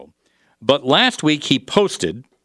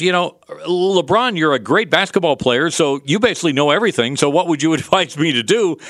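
mocking paraphrase; 4 semitones higher than usual. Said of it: "This police officer mocking LeBron James".

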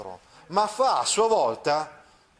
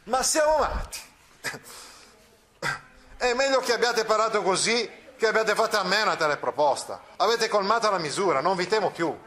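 indignant outburst; 4 semitones higher than usual. Acted. Friar's outburst against Don Rodrigo.

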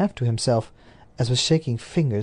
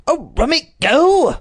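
slow, higher incredulous echo; echoing the Duke; 14 semitones higher, 7 dB louder, slower than usual. A narrator's reading. The Duke echoes his servant's phrase, slow and incredulous. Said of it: "he echoed it".

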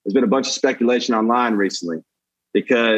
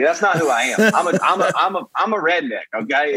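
put-on Southern redneck accent; 3 semitones higher than usual. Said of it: "this accent".

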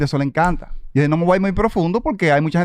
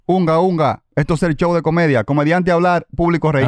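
caveman; slower than usual. Retold or imitated. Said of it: "yo comencé a hablar como cavernícola".

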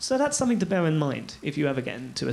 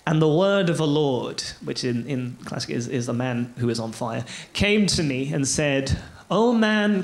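street preacher. Retold or imitated. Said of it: "I'm sounding a bit like a street preacher here".

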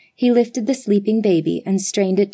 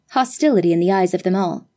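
ordinary delivery

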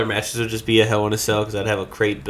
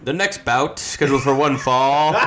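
grand entrance announcement; 4 semitones higher than usual. Retold or imitated. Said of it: "just like".

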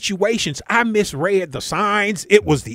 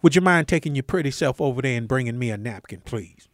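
mock smooth flirt; 5 semitones lower, 5 dB quieter than usual. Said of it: "you let me say something to a thirty-year-old woman".

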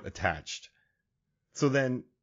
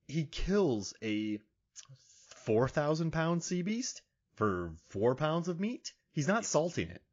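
ordinary talk

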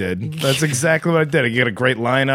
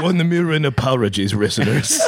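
mock Japanese accent; bad Japanese accent; 2 semitones lower than usual. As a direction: apologise in a badly faked Japanese accent. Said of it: "making the fun of the Japanese".

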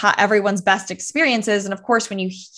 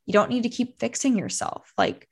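gentle big sister voice. Retold or imitated. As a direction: soothe yourself gently like a big sister would. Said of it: "It felt like a big sister energy".

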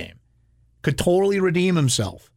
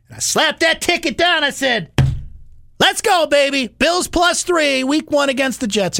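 excited; 10 semitones higher than usual. Retold or imitated. Retelling placing his bet.

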